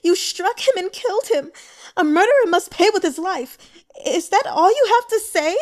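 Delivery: very high and loud, raging; furious shout. Acted. Grieving sister screaming at her brother's killer, furious. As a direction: demand a life for a life. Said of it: "the girl cried in anger".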